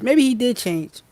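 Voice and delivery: high, breathless whisper of longing; hopeful whisper. Retold or imitated. Coach imitating a partner's hopeful thought in a whisper. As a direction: whisper it like a secret hope. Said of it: "You hear that hope?".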